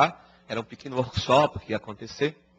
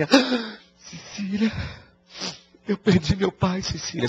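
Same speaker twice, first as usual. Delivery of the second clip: higher, mock-tearful complaint; mock whining; 6 semitones higher, slower than usual. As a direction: whine it like a friend fishing for pity. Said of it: "tá choramingando que seu pai desencarnou". (choramingo fingido, mais agudo)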